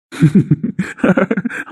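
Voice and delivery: rising chuckle at a friend's expense; teasing laugh. Real, not acted. Friend laughs at the lovesick man, teasing chuckle. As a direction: laugh at him, amused.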